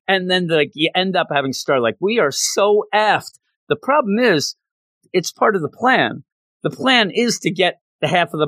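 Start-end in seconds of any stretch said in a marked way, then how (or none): 2.0-3.4 high, slow doomed moan; hammed-up hopelessness; mock dread. Star despairing.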